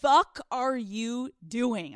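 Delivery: drawn-out, exasperated mock yell; mock outraged scolding; retold scream. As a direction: imitate a brother yelling down the phone, stretching the words. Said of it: "screamed into the phone".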